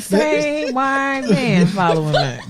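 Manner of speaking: slow words through real laughter; laughing. Real, not acted. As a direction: draw it out while cracking up. Joke amid shared laughter.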